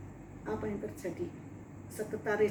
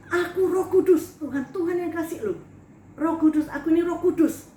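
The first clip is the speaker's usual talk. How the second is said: insistent protest; 4 semitones higher, 5 dB louder than usual. Retold or imitated. Arguing with God, raising her voice.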